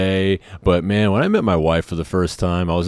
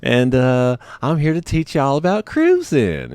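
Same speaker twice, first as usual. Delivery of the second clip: put-on raised-pitch Texas accent, warm teacher intro; 7 semitones higher than usual. Trainer introducing the cruising lesson, in a Texas accent. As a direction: Texas accent, announce the topic to the class. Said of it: "this Texas accent".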